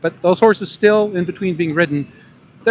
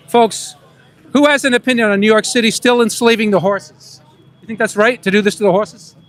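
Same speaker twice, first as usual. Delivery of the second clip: higher, louder New York accent calling out to passersby; 5 semitones higher, 3 dB louder than usual. Shown as a demonstration. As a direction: keep the put-on New York City accent. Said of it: "I'm gonna talk like a New Yorker".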